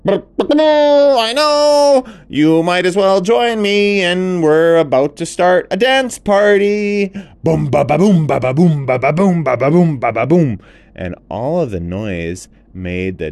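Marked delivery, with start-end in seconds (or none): 0.1-10.6 high, loud, booming happy elephant; big cheerful elephant voice; jolly elephant. Acted. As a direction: boast about being noisy. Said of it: "the elephant said".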